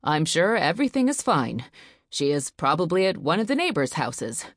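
steady, reassuring father; forced calm. Acted. Husband reassuring his frightened wife, forced calm. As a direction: keep your voice calm for her sake. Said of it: "tried to sound calm".

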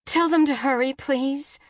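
high, anxious begging; frantic mother pleading; urgent plea. A narrator's reading. Mother urges dispatcher to hurry.

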